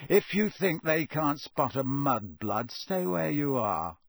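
slow, lightly voiced sneer; Malfoy sneering at Hermione. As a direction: let the insult drip slowly.

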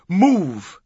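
loud, high one-word order; shouted command. A narrator's reading. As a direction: cut him off with a shout. Cuts him off with an order.

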